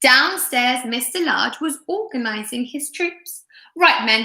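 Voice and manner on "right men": commanding. Acted. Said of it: "he commanded".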